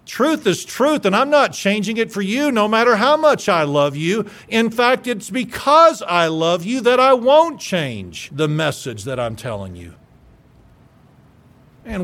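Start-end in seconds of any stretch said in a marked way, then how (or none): 0.0-9.9 defiant preaching. Acted. Preacher defies the woke kid.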